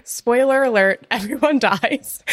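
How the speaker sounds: reading through giggles; can't keep a straight face; laughing. Real, not acted. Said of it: "I can't say that without laughing".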